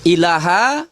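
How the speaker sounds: recited shahada. Shown as a demonstration. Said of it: "Kalau bersyahadat itu".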